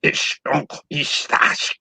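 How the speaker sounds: guttural fake German; hammed-up fake German gibberish; mock German. Shown as a demonstration. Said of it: "German rolls up".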